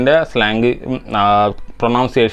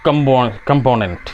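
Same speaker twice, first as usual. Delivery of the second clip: British pronunciation; slower than usual. Retold or imitated. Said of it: "British pronunciation".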